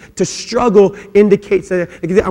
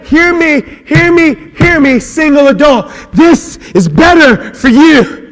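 raised, pleading call; 7 semitones higher, 5 dB louder than usual. Real, not acted. Pastor calling out to single adults, raised. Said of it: "direct appeal to singles".

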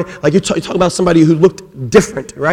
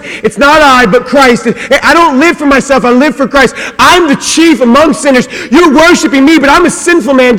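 fervent Paul pleading; 7 semitones higher than usual. Retold or imitated.

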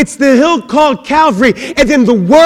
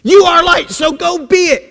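mock command; 6 semitones higher than usual. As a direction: bark it like a drill sergeant. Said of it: "It's not like".

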